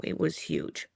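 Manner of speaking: hushed, breathless whisper. Retold or imitated. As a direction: drop to a whisper of awe. Awed by the owl's size.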